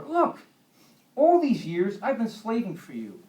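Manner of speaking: loud, high indignant outburst; a wronged son lashing out at his father; resentful protest. Acted. Older son to father, loud indignant complaint.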